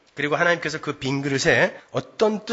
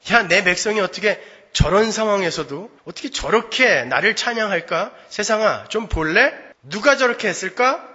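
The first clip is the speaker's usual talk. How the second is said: proud voice of God; 3 semitones higher than usual. Retold or imitated. God boasting to the world.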